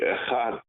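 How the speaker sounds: "echad" with the last consonant drawn out apart; prolonged final dalet. Shown as a demonstration. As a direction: hold the TH-like ending of "echad". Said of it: "prolong the dalet sound of echad".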